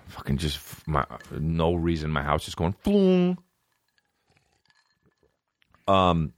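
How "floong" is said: imitated alert sound. Imitates the computer's alert noise.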